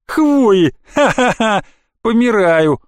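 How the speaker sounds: высоко, громко, захлёбываясь смехом; расхохочись над глупостью; сквозь смех. A narrator's reading. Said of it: "не унималась эта злодейка". (громкий насмешливый хохот)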